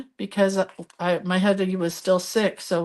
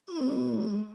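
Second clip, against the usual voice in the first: soft choked-up hum; 5 semitones higher, 7 dB quieter than usual. Real, not acted. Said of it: "I'm trying not to cry".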